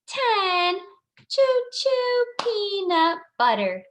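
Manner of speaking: put-on children's rhyme. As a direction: recite it playfully to little kids. Recites remembered children's poem.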